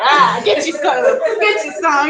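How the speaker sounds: laughing as he tosses wealth; laughing generosity. Acted. Shango throwing wealth to the crowd, laughing. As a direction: toss it out with a laugh. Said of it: "he throwing the wealth out".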